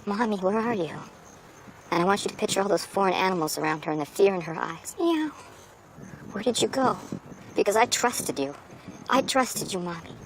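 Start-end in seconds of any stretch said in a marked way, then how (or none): 0.1-0.9 cat voice. Retold or imitated. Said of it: "hear those meows saying". 5.0-10.1 high, plaintive kitten crying for mommy; a hammed-up sad kitten calling for its owner; pleading cat voice. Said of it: "hear those meows saying".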